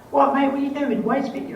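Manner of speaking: dad's high, loud mocking voice. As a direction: imitate a father ribbing his son's London accent. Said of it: "my dad would make fun of me".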